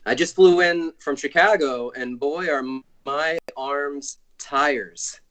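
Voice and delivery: lightly voiced old borscht belt comic; cheesy stand-up delivery, slowing to the punchline; Michelin Man comic. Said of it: "my impression of, uh, the Michelin Man doing comedy".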